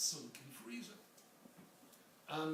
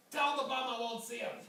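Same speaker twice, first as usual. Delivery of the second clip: gruff refusal; 7 semitones higher, 5 dB louder than usual. Retold or imitated. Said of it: "came the voice from the top of the stairs".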